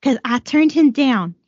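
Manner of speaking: put-on a light try at a Brooklyn accent; old Brooklyn accent, barely there. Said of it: "I'm gonna read it with a Brooklyn accent".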